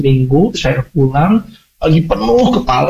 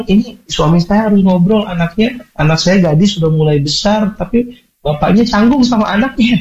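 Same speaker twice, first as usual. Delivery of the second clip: mothers complaining; 6 semitones higher than usual. Retold or imitated. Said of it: "banyak ibu-ibu bilang".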